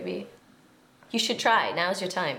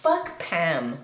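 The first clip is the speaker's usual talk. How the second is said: whispering; 4 semitones lower than usual. Real, not acted. Friends chant against ex.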